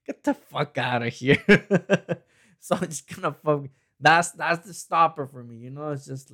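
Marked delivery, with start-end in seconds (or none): 1.4-2.2 high burst of laughter; real loud laugh at his own story. Real, not acted. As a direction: crack up loud at the absurd claim.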